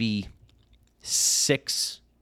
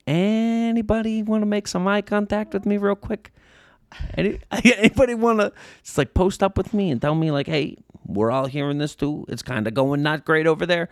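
high, louder pleading inner voice; silently begging the room for help, pitched way up; inner plea; 11 semitones higher, 5 dB louder than usual. Retold or imitated. His inner plea, acted.

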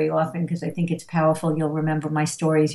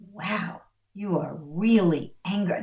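calm validation. Shown as a demonstration. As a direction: acknowledge a child's anger without fighting back. Models calm validating parent.

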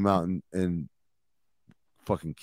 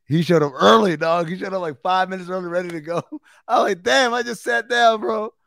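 high-pitched excited disbelief; amazed retelling; 8 semitones higher, 6 dB louder than usual. Retold or imitated. Host tells of a player turning up early, high excited disbelief. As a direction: pitch climbing in comic astonishment. Recounting surprise at guest arriving early.

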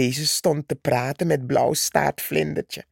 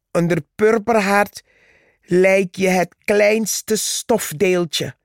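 boastful taunt; 3 semitones higher than usual. Acted. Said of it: "ging Purperhart voort".

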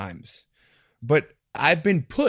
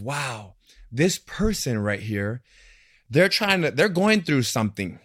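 peaceful thought. Retold or imitated. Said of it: "from a place almost of peace".

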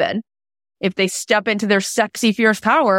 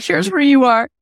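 emphatic; 8 semitones higher, 5 dB louder than usual. Retold or imitated. Telling husband.

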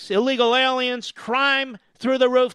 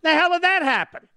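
higher, mock-astonished question; surprised; 6 semitones higher than usual. Host retelling his DNA test, baffled. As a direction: sound baffled at the news.

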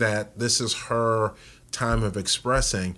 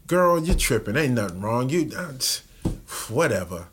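dismissive brush-off; 2 semitones higher than usual. Retold or imitated. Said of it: "if I come off and say".

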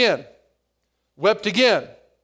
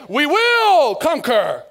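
mock heroic vow; 3 semitones higher, 3 dB louder, slower than usual. Preacher voicing resolute vow.

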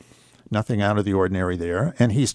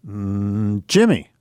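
father with dementia guessing his son's name, unsure; confused old father; much slower than usual. Retold or imitated.

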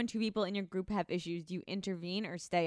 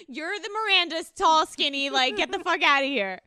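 loud, high, laughing outburst; loud laughing get-outta-here; laughing disbelief; 7 semitones higher, 8 dB louder than usual. Real, not acted.

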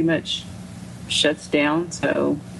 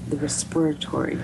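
South African "respiratory", mock; imitating South African accent. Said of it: "I just love the accent".

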